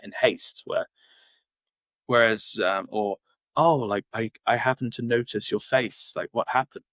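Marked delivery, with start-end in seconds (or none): 3.5-6.8 sugarcoated question. Retold or imitated. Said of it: "they'll sugarcoat it in a nice tone".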